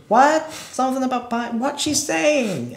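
high, loud mock yell of a hard-of-hearing man, slow at the end; retelling a deaf man asking what she said, high and loud; deaf man shouting. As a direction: yell it like you can't hear a thing. Voicing deaf character.

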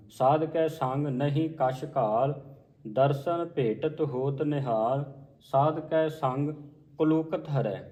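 slow, measured line-by-line reading; scripture recitation. Shown as a demonstration. Teacher modelling a scripture reading for learners, slow measured recitation. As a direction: recite each phrase slowly with pauses between.

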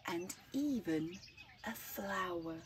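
put-on slow, lilting read-aloud for children; gentle storyteller reading to kids; story narration. A narrator's reading. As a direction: tell it like a bedtime picture book. Reads picture book aloud.

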